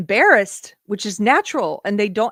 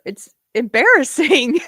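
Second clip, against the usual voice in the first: self-mocking; 7 semitones higher, 8 dB louder than usual. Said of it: "I've gotten choked up".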